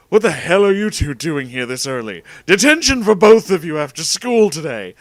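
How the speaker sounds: loud, rising scolding voice; angry teacher shout. Acted. Mean science teacher giving detention, angry shout. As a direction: bellow the punishment at two students.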